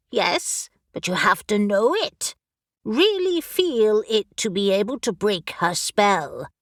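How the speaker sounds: brisk, impatient talking raven; a raven who has searched everywhere and is exasperated; bossy raven. Acted. Raven character voice.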